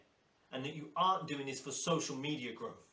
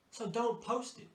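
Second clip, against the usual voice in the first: each word slowed and spaced out, stressing "don't"; slow it right down, "don't" leaned on; slow, deliberate; 6 semitones higher, slower than usual. Shown as a demonstration. Coach repeating the rule to stylists, slow and deliberate.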